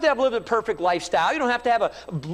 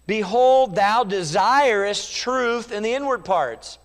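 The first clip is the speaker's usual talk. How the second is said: slow, weighty reading of scripture; slower than usual. Acted. Preacher reading the psalm aloud to the congregation, slow and solemn. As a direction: read the verse slowly and solemnly. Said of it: "Psalm fifty-one six".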